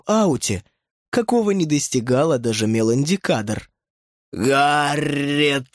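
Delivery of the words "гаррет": gurgled shout. Acted. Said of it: "пробулькала она".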